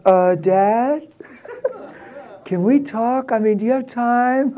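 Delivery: hesitant, halting mock son with a laugh; sheepish son stammering out a request to his dad; tentative, mealy-mouthed son. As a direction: play the nervous son asking for a talk. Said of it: "calls me all tentative and mealy mouth".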